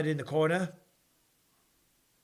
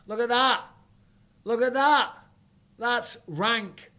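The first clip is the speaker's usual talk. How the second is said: louder, higher shocked look at that; disgusted exclamation; 8 semitones higher, 6 dB louder, slower than usual. Real, not acted. Showing viewers the toe injury, loud disgusted exclamation. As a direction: recoil at the sight. Shows a gross injury clip.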